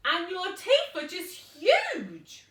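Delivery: put-on high, slow, loud girl voice; awed little girl. Little girl awed by the teeth, high and slow. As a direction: gape at the teeth.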